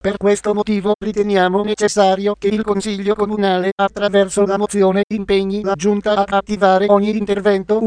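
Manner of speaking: text-to-speech voice reading the news; even, computer-read news report; synthetic news voice. Real, not acted. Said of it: "sintesi vocale Voce Viva".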